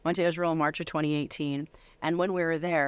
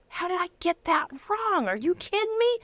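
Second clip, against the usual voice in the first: retold disbelief. Retold shocked inner thought.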